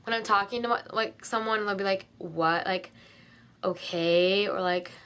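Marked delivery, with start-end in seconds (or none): 2.2-2.7 low, curt mock "what?"; rude. Someone answering her rudely, low rude tone. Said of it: "really rude and annoying". 3.6-4.5 low, questioning "okay"; rude. Retold or imitated. Someone answering her in conversation, rude tone. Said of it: "really rude and annoying".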